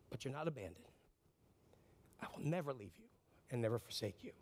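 hushed and consoling; tender reassurance. Acted. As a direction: quietly assure someone they are not alone. God's promise to the lonely.

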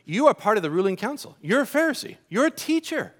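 high, fast, exasperated rebuke; scolding. Acted. Jesus scolding Nicodemus for not knowing, exasperated and high. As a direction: tell off a teacher who should know better. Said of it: "Jesus kinda scolds him a bit".

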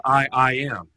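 I, I am with a stammered I; mock awkward I, I am; goofy doubled I. Shown as a demonstration. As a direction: repeat the I as if emphatic. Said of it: "That just sounds goofy".

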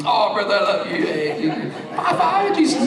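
mock sweet greeting, hiding dislike; a hammed-up act of liking him; fake friendliness. Fake-friendly hello to Brother Fowler, mock sweet. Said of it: "we act like we do".

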